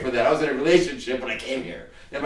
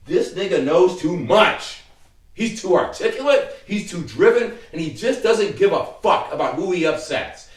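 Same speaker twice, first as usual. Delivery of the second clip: mock exasperated complaint; 3 semitones higher, 4 dB louder than usual. His opponents wanting rid of him, mock exasperated.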